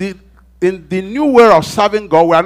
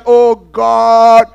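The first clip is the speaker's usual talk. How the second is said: earnest resolve; 6 semitones higher, 7 dB louder, much slower than usual. Retold or imitated. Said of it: "you decide".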